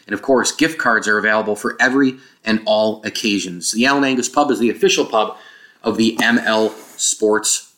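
hollow, roomy mic sound; like recording in a big empty room; echoey open sound. Real, not acted. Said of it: "if you heard kind of an echoey open thing".

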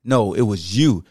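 low, slow second voice; a low, unhurried deep-voice retort. Shown as a demonstration. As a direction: drop into the deep voice, slowly. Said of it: "The deep voice like this".

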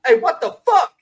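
high startled yelp as the cookout guy; imitating the cookout guy. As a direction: squeak it out like the viral clip guy. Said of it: "he goes".

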